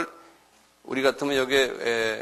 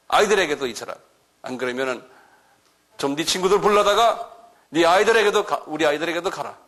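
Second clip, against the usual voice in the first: commanding prayer. Shown as a demonstration. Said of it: "명령을 자꾸 막 내리는 거예요".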